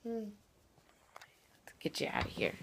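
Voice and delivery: slow soft whisper. Real, not acted. Lifting the child out of bed.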